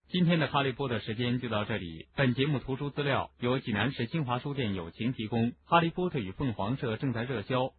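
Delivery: understated programme outro after the story; radio sign-off. Real, not acted. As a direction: read the closing credits quietly. Host reads programme sign-off.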